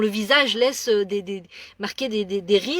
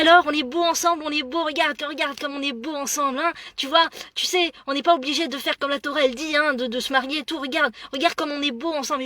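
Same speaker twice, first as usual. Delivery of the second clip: mock-cajoling girlfriend; 3 semitones higher than usual. Friend showing her photo, pushing her to admire, mock-cajoling. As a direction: coax her to admire the couple, half-mocking. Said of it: "Elle me dit".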